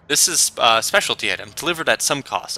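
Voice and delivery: Turkish vendor. Acted. Vendor naming a high price.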